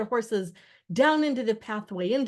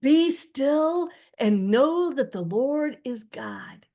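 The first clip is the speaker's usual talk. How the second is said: loud, raised, slow proclamation; booming command; 6 semitones higher, 7 dB louder, slower than usual. A narrator's reading. Moses commanding the screaming people at the sea, booming. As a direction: boom it out slowly with full authority. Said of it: "Moses' voice boomed".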